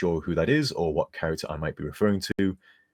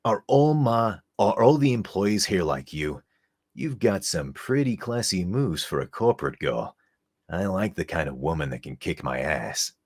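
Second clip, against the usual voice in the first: throaty rasp. Acted. Spike lines voiced as Wise for a donor, throaty rasp. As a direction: push it from the throat, flirty and cool. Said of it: "read more as Wise".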